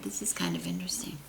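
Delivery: quick whispered aside; hushed and quick. Real, not acted.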